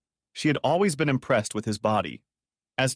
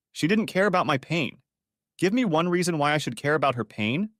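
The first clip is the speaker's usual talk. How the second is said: pleading; 5 semitones higher than usual. Acted. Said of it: "Tom pleaded".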